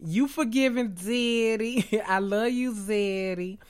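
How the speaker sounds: mock flirty Keely. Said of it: "playing Keely flirting with Zeddy".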